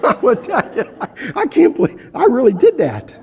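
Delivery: talking through real laughter; laughing. Real, not acted. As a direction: let the laugh break the words. Laughing at his own story.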